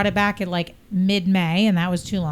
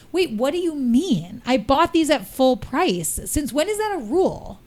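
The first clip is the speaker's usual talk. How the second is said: indignant protest; 4 semitones higher than usual. Retold or imitated. Arguing with cashier over refund.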